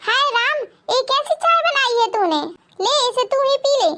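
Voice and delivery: sharp-tongued mother-in-law yelling for her bahu, lightly played; mildly voiced scolding mother-in-law. Mother-in-law rejecting tea.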